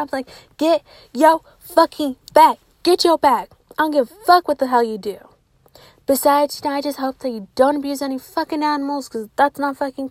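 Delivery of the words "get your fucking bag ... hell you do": loud empowering cheer; hype encouragement. Real, not acted. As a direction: hype them up. Cheering on sex workers.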